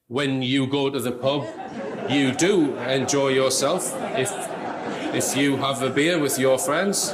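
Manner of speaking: slow, stilted, evasive answer, with a laugh; mock Neil answer. Mocking Neil answering his wife with a laugh. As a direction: mimic him dodging his wife's question. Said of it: "He goes around talking like that".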